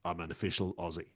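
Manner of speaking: understated antipodean movie-star voice; Russell Crowe. Acted. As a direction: lightly impersonate a matter-of-fact film star. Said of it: "bit of Russell Crowe".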